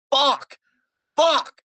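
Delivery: high loud yell of joy; excited shout. Real, not acted. Fan reacting to the match, excited shout. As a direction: shout it out, thrilled.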